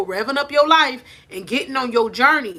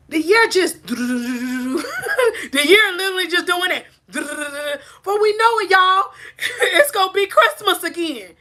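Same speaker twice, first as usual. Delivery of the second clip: high, slow, laughing disbelief; giggling at the time flying by; laughing through words; 7 semitones higher, 3 dB louder, slower than usual. Real, not acted. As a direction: laugh as you say it. Laughing about how fast time flies.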